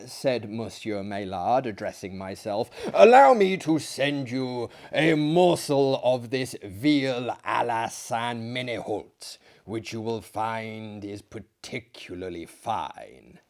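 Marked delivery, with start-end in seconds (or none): 2.9-13.4 a hint of a courtly host offering veal; genial host. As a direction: press the dish on him kindly.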